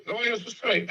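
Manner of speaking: high mock-apologetic Chicago accent. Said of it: "I'm doing my best Chicago accent".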